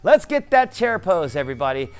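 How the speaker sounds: rally them for the last round; rallying shout. Real, not acted. Coach rallying class to stand.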